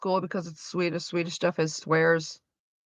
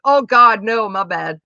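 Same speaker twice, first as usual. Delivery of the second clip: 1 flustered apology; 3 semitones higher, 10 dB louder than usual. Retold or imitated. Apologising to the parent.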